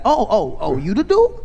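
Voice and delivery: light up like you finally get it; rising, delighted you the dude; excited recognition. Retold or imitated. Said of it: "He's like".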